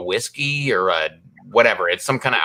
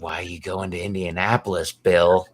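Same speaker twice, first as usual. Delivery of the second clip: mock quoting the passenger; 5 semitones lower, 3 dB quieter than usual. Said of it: "I love it".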